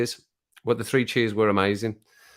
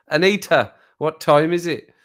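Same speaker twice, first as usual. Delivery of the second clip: higher, louder call to a device; calling to a voice assistant; 4 semitones higher, 4 dB louder than usual. Retold or imitated. Waking late, asks assistant the time, calling out.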